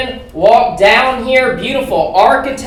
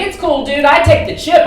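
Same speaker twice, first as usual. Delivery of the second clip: imitating a breezy, higher-voiced panhandler; mock easygoing assurance, pitched up; casual reassurance; 5 semitones higher than usual. Panhandler brushes off comic's excuse, casually reassuring.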